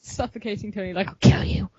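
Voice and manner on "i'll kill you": hushed creepy threat; creepy growl. Retold or imitated. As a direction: breathe it like a villain. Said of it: "Steve growls like that, like, creepily".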